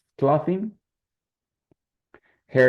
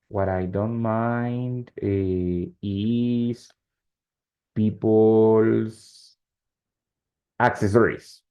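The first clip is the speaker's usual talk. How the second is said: slow dictation with long pauses; dictating; much slower than usual. Shown as a demonstration. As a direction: hand out the sentence piece by piece. Teacher dictating example while writing it.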